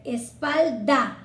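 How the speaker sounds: "espalda" slow, weight on the final "a"; pointing at the word. Shown as a demonstration. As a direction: stretch "espalda" so the ending is heard. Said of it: "fíjate".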